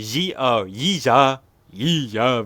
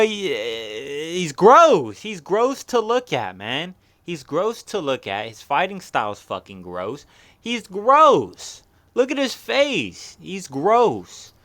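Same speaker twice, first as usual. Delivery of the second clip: disgusted high exclaiming; 5 semitones higher, slower than usual. Real, not acted. Disgusted at fighter's looks.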